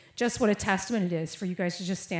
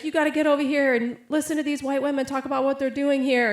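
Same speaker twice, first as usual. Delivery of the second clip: high, loud retold summons; urging someone over; 7 semitones higher, 6 dB louder than usual. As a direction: imitate a man calling his buddy to come listen. Man urgently calls acquaintance over.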